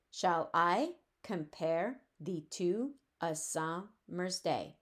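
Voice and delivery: "summer's day" broken up slowly, dropping low on "day"; foot by foot. Shown as a demonstration. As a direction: split "Shall I compare thee to a summer's day" into five separate two-beat feet. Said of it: "there are five of these stressed, unstressed feet".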